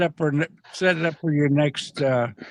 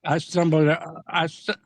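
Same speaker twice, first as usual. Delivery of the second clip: talking around a mouth pouch; tongue tripping over a chewing pouch; mouth full; 3 semitones higher than usual. Real, not acted. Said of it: "I'm chewing on a mouth pouch".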